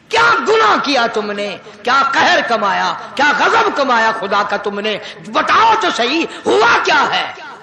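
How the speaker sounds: emphatic spoken questions with falling cadences; impassioned preaching. Acted. Preacher interrogating the condemned about their sin, impassioned. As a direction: demand an answer as a preacher.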